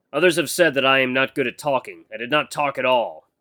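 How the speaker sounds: a hint of stiff, formal speech; lightly voiced awkward mentor. Mentor admitting he is bad at talking, mildly stiff. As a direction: confess in measured, careful words, lightly in character.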